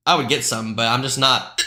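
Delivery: hiccuping mid-sentence; interrupted by hiccups. Real, not acted. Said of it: "I got the hiccups".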